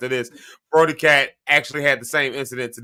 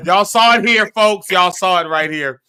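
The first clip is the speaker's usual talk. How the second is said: louder showman announcing, a bit higher; announcer call; 4 semitones higher, 5 dB louder than usual. Acted. Hosting the show, louder presenter voice to the folks. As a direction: sell it like a TV host.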